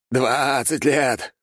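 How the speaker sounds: very slow, high triumphant cry; ecstatic. Acted. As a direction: savour each word in victory. Archmage exults over twenty years.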